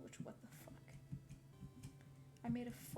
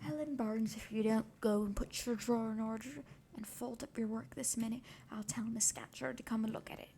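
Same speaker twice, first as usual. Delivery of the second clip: louder, scolding monitor ordering Helen about; stern monitor's call; 4 semitones lower, 12 dB louder than usual. A narrator's reading. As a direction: call out sharply to a younger pupil. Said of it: "exclaiming in a strong Cumberland accent".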